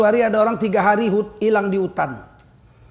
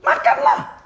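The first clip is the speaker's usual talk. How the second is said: breathy, high whisper of the command; 3 dB louder, slower than usual. Shown as a demonstration. Preacher whispering the Quran's command to his congregation, hushed. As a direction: breathe the word Makanlah out in a whisper.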